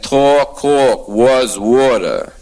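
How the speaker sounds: drawn-out New York vowels; New York accent. Acted. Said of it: "So I recognize that accent".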